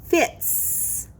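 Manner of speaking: Fits whispered, with a hissing s at the end; whispered word model. Shown as a demonstration. Teacher whispering the word to the class. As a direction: whisper Fits, letting the s hiss. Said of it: "Next is fits".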